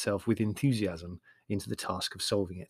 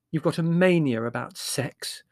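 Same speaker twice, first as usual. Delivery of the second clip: higher, primly disapproving; 5 semitones higher, 4 dB louder than usual. Acted. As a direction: reprove him primly. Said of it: "said Marlowe primly".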